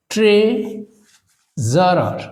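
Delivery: ট্রেজারার very slowly, split after ট্রে; ট্রেজারার broken up for a spelling class; syllable by syllable. Shown as a demonstration. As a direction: stretch ট্রে, pause, then জারার. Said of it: "syllable ভাগ করে এটাকে যদি আমরা উচ্চারণ করি".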